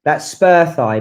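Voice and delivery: "spur thigh" as two distinct words; carefully pronounced "spur thigh"; clearly corrected name. Shown as a demonstration. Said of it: "not stir fry".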